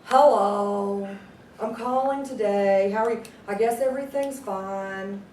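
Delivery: slow, listless caller, a hint of Eeyore; low-energy Eeyore. Shown as a demonstration. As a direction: drag each word like a glum donkey. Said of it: "Do you wanna sound like Eeyore?".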